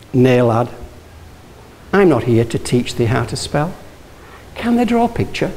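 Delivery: light Yorkshire teacher's voice, nay lad; a hint of broad Yorkshire, kindly; Yorkshire accent. Old teacher answers the boy, light Yorkshire accent. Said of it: "In a wonderful Yorkshire accent".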